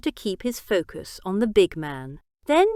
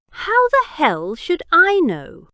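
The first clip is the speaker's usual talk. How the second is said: higher, louder sarcastic snap; sarcastic outburst; 9 semitones higher, 5 dB louder than usual. A narrator's reading. Biggs snaps back sarcastically at the gunman Jack. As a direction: throw it back at him with scorn. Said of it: "Big burst out sarcastically".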